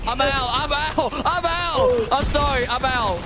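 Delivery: loud, high exit; shouting. Real, not acted. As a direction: yell while rushing off. Leaving in a rush.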